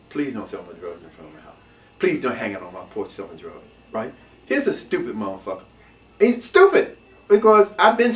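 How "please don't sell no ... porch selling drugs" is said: pleading lady. Retold or imitated. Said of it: "She asked them several times".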